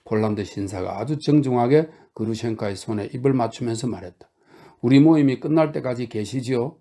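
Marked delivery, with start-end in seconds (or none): 4.8-6.8 kindly. Acted. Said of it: "상냥하게 말했다".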